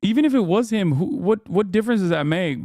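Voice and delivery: can't believe what you read; incredulous. Real, not acted. Baffled by a tweet.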